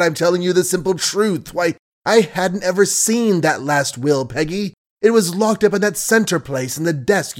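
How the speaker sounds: frantic lover pleading, pitch leaping; desperate pleading. Acted. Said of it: "Billy's voice shook and skipped whole octaves as he pleaded".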